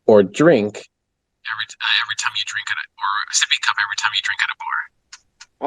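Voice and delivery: garbled walkie-talkie mic; distorted crackly radio voice; ham radio. Real, not acted. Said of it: "Did you just become a walkie-talkie?".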